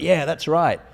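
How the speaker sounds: bright mock-proud yeah; playing along. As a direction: ham up the party-guy yes. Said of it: "I was like".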